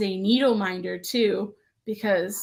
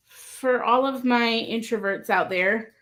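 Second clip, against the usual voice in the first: usual speaking voice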